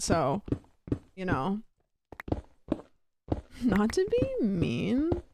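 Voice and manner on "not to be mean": slow, drawn-out mock sincerity. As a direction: stretch it out sarcastically. Slow mocking repeat.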